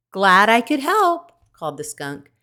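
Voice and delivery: a little creature calling out goodbye; cheerful skunk. A narrator's reading. Skunk calling goodbye to the departing robot, high and cheerful.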